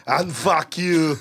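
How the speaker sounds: slow, full-voiced Austrian cursing; deliberate action-hero put-down; Arnold. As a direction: copy the drawn-out cyborg insult. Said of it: "hey, say".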